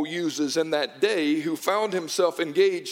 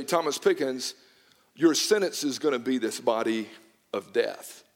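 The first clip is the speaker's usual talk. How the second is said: a judge pronouncing guilt, pitched lower; stern judge; 6 semitones lower than usual. Retold or imitated. Judge tells the accused his murder verdict, low and grave. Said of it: "look at you and say".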